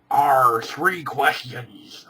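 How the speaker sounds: slow hammy pirate drawl. Pretend. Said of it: "in a pirate voice".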